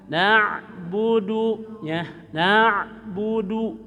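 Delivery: Na budu slow, na short from the throat. Shown as a demonstration. Teacher shows the short throat na. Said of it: "Pendek, jangan dipanjangkan".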